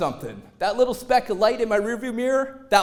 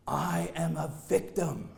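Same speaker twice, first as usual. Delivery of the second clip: mock victim; 4 semitones lower, 6 dB quieter, slower than usual. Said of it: "what does an injury lawyer want you to say".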